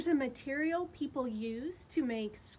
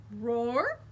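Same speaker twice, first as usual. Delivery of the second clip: mild roar; 3 semitones lower, 4 dB louder than usual. Acted. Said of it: "he said".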